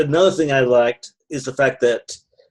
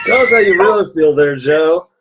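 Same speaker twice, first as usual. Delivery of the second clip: teasing; 3 semitones higher, 6 dB louder than usual. Real, not acted. Teasing friend after the rant.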